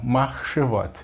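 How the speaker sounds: "Marchevot" with a strong, clear final t; strong final sound. Shown as a demonstration. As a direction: hit the ending of "Marchevot" firmly. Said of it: "enfatiza o som forte no final".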